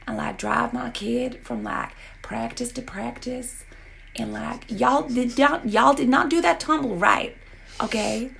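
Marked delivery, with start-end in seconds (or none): 4.7-8.3 put-on light Southern accent, scolding a cheer squad as a mom. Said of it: "I don't know if I could do that accent".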